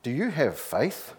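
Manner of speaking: lightly voiced calm sky voice; calm powerful voice. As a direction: ask it with unhurried, understated authority. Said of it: "A calm, powerful voice".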